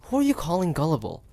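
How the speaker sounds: who are you calling gullible, bristling; offended retort. Acted. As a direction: bristle at the insult. Offended hunter confronts demon.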